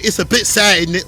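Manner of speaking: a light mock British accent. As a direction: toss in a hint of British. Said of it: "you ain't got no cool British accent".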